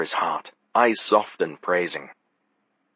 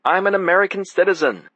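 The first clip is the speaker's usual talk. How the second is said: high, loud hammed-up proclamation; mocking yell; 11 semitones higher, 5 dB louder than usual. A narrator's reading. Will yelling to mock the narrator's outburst. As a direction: bellow it to mock his friend. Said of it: "Will yelled".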